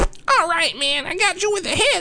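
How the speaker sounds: terrible, very high-pitched orc voice. Describing shooting down an opponent in a game, doing a terrible orc voice. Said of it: "I'm probably doing a terrible orc".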